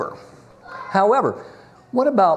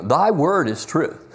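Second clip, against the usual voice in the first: "Thy word is truth" drawn out slowly, each word weighted; a slow, deliberate scripture quote; slow, emphatic quote; slower than usual. Shown as a demonstration. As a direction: lean into "Thy word is truth" and take your time. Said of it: "You know".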